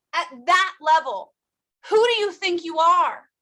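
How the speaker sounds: rising outrage at the doctor; indignant. Retold or imitated. Confronting the doctor, tears.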